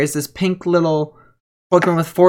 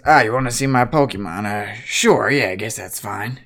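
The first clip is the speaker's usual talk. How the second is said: put-on lower, easygoing older guy; laid-back cowboy; 5 semitones lower than usual. Mitchell greeting the party, lower and laid-back. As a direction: drop it down, relaxed and modest. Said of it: "he says".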